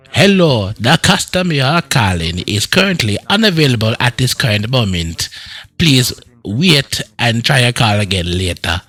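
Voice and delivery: over-proper Jamaican phone recording; Jamaican-accented automated phone message; posh Jamaican accent. Pretend. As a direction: do a Jamaican trying to sound posh. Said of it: "a Jamaican way of posh".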